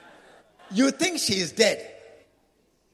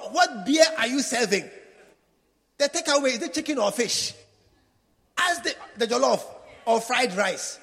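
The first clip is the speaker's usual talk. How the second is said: louder, higher eager guest; greedy funeral guest; 3 semitones higher, 5 dB louder than usual. Retold or imitated. Preacher mocks funeral guests asking for food, loud and eager. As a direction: ask about food and drink eagerly. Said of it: "They are looking for".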